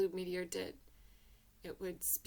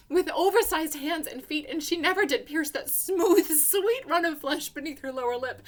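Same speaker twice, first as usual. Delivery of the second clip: louder, higher, rushing with relief; euphoric; 4 semitones higher, 10 dB louder than usual. A narrator's reading. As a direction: let the joy burst out as you tell it. Joy that the body isn't her.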